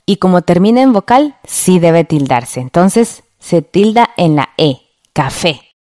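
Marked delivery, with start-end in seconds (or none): none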